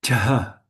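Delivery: "Cha" with a puff of air after the ch; aspirated cha. Shown as a demonstration. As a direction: release "Cha" on an audible breath. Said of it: "Aspirated cha".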